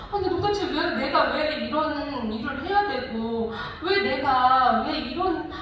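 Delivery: drawn-out mock-angry complaint; retold exasperation. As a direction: re-enact rising resentment at being used. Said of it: "이러면서 막 이게 막 화가 막 올라오는 거예요".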